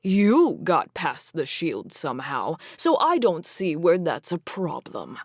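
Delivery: sneering. Acted. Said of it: "Cameron sneered".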